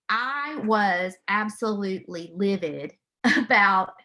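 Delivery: laughing through the word livid, slowed down; a rueful laugh while admitting she was livid. Real, not acted. Mother laughing to her audience about being livid.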